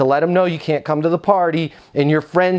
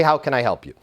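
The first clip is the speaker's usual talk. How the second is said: "How can I help you?" said lower and softer as the bad example; lower, wrong phrase; 4 semitones lower, 3 dB quieter, faster than usual. Shown as a demonstration. Trainer showing staff the phrase to avoid, lower. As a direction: drop the pitch on the don't-say line. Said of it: "Why would you not say".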